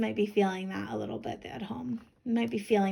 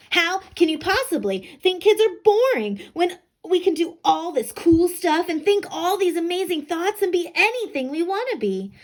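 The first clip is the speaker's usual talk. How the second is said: high, loud excited protest; indignant girl; 7 semitones higher, 6 dB louder than usual. Acted. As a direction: argue back, thrilled and fired up.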